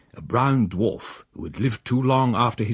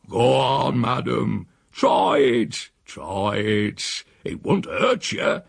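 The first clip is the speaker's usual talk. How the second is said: higher, slow mock-innocent old countryman; Silas; 3 semitones higher, much slower than usual. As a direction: coax her, sly and unhurried. Silas coaxes again.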